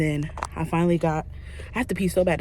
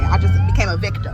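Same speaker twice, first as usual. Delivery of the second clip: mock dramatic squeal; 6 dB louder than usual. Dramatic joke about accident.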